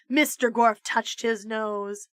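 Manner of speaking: usual speaking voice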